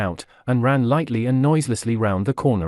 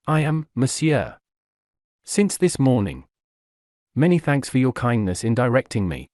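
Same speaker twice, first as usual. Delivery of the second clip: a polite Frenchman thanking, unhurried; foreign accent. A narrator's reading. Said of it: "with a marked foreign accent".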